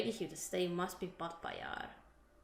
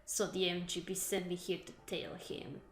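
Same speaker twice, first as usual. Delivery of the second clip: put-on Russian accent. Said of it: "Did I do the accent well?".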